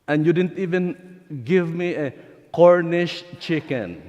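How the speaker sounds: resentful son shouting that he was never rewarded; angry son. Acted. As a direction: throw the grievance at the father. Older brother confronts his father.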